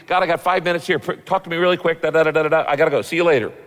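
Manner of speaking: mock rushed chat with God; frantic, hurried prayer. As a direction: rattle through it like someone with five minutes. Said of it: "If you're frantic".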